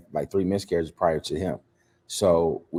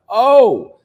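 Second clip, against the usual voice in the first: sudden gasp; 14 semitones higher, 10 dB louder than usual. Retold or imitated. Wife in labor.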